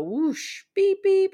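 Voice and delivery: whoosh, then high, loud beeps; imitated car noise. Friend retelling a phone call, imitated car whoosh and beeps. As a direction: mimic a car whooshing past and honking. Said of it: "hears, like, a car go".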